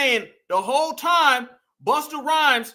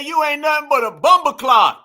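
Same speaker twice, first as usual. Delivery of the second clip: mimicked Jamaican accent; 3 semitones higher, 7 dB louder than usual. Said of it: "He said".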